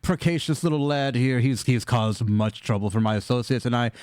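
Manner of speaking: measured, lilting politeness with small hesitations; a hint of a formal villain, polite and unhurried; lightly voiced courteous villain. Villain asking a favor of the party, lightly voiced courteous menace.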